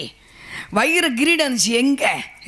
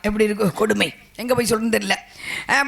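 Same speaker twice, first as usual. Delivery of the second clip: usual speaking voice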